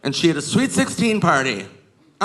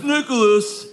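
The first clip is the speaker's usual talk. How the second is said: angry quarterback; 8 semitones higher than usual. Retold or imitated. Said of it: "And he goes".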